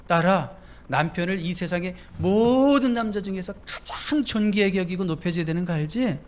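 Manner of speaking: tender, coaxing reminder; the Lord's voice. Retold or imitated. Preacher voicing the Lord counselling son and daughter, tender. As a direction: gently remind like a loving father. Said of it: "주님의 음성이라면 어떻게 들려올까요".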